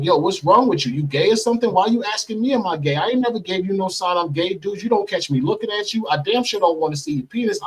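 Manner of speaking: re-enacted offended protest; retold telling-off. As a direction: go in on him, affronted. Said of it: "I'm going in on him like".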